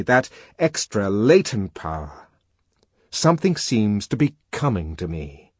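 put-on lively young man voice; voiced character, animated; Helmholtz voice.

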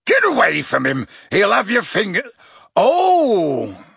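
high, loud, urgent holler; shouted warning. A narrator's reading. Hagrid warns strangers off Buckbeak, shouting. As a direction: yell them away from danger.

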